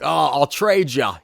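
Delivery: imitated Australian villain; mock Australian movie-villain voice; Aussie accent. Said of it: "he's got an Aussie accent".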